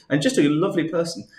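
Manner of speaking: deadpan. Acted. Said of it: "Just deadpan".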